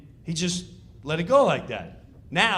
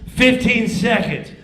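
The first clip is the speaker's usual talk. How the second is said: countdown call; 5 semitones higher, 9 dB louder than usual. Retold or imitated.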